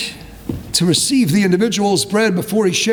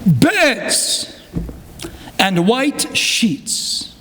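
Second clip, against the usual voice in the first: faltering voice; much slower than usual. Retold or imitated. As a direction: let the voice break and fade on the last words. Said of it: "His voice faltered".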